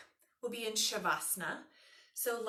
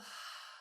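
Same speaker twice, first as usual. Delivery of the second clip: soft audible sigh; demonstrated exhale; 11 dB quieter than usual. Shown as a demonstration. Yoga teacher guiding students to exhale and release, soft sigh. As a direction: let the breath out in a soft, voiceless sigh. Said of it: "And then exhale".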